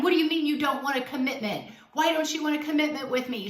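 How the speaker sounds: fast, mildly agitated demand; half-voiced yell, rushing the questions; mock indignant yelling. Coach acting out the girlfriend who overreacts to him, mock indignant. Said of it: "She doesn't yell at him".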